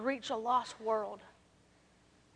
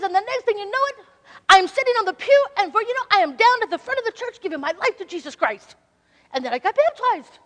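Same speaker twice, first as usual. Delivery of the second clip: put-on higher, louder amazed old man; an old man marveling at his conversion; lightly voiced excited old man; excited Hank; 7 semitones higher, 11 dB louder than usual. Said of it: "I'm gonna try to imitate Hank".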